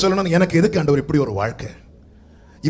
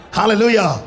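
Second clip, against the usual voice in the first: loud ringing hallelujah called to the church; a full-voiced praise cry; shouted hallelujah; 5 dB louder, slower than usual. Real, not acted. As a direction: shout it out to the congregation.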